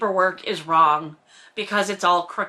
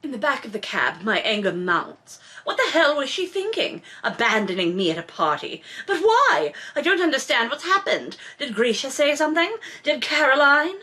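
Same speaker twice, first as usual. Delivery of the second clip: dramatic novel reading; 3 semitones higher than usual. A narrator's reading. Host reads Maxim's angry inner monologue, with building heat. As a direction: read his angry thoughts with rising heat.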